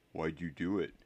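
small, hurt question; thin, wavering voice. A narrator's reading. Neville holding back tears, asking Harry, thin wavering voice. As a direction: ask it thinly, near tears. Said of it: "he said in a thin, wavering voice".

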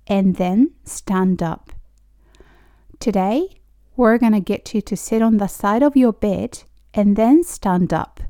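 slow, evenly spaced English for learners; slow demonstration. Shown as a demonstration. Teacher repeating a rehab sentence for learners, slow demonstration. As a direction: model the sentence phrase by phrase, with pauses. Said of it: "もう一回言うと".

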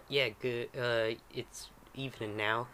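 put-on light, hesitant southern accent; wake-up message with a southern lilt. Game master's character calls sleeper to dinner, southern accent. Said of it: "this is the accent".

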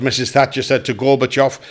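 each word given its full weight, "Missus Thatcher said to Gorbachev" landed clearly; clear and deliberate. Shown as a demonstration. Comic showing the right way to land a feed line, said clearly. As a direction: spell out "Missus Thatcher said to Gorbachev" so the back row hears it. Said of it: "Get your lips and that round that".

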